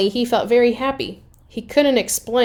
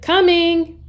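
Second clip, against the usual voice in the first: high, loud answering shout; shouted reply; 10 semitones higher, 5 dB louder than usual. Acted. Annie shouts back to Mom. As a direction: yell back across the woods.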